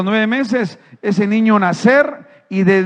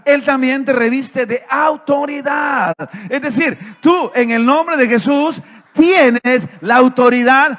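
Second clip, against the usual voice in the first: preaching shout; 4 semitones higher, slower than usual. Real, not acted. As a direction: lift the congregation, building to a shout. Preacher rising to climax.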